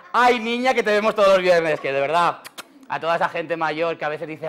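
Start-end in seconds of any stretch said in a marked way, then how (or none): 0.1-1.8 put-on higher, louder sweet old lady call; old village lady voice, a bit louder; old ladies' voice. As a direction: imitate an old lady greeting her warmly. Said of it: "decían".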